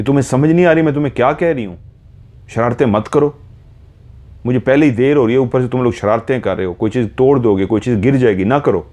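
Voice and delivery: exasperated mother scolding her daughters. Retold or imitated. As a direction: tell them off sharply, out of patience. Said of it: "मैंने उनको डांटा".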